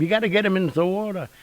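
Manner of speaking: high, loud, hurried shout; mock yelling. Onlookers urge the men to return the shark, mock yelling. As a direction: imitate a crowd yelling urgent orders. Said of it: "they were all yelling at him".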